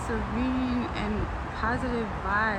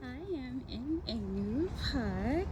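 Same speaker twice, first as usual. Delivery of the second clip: put-on voice; 5 dB quieter than usual. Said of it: "Let me stop doing my voice like that".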